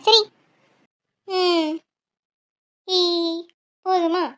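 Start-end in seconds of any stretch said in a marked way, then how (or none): 2.9-3.0 forced grin sound. Pretend. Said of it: "கொஞ்சம் சிரிச்சா என்னவா?".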